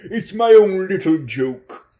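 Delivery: a hint of a greedy pimp making an offer; sleazy pimp. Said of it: "a Ponzi pimp".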